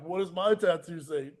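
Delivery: "What does my tattoo say?" said flat and soft; just mutter the movie quote; quoted line, plain. Retold or imitated. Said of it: "like, this, like".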